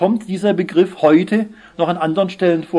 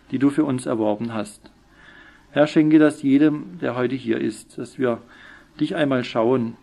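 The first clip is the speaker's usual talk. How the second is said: subdued, reverent prayer; humble thanks addressed to the Lord; 2 semitones lower than usual. Real, not acted. Leads a closing prayer.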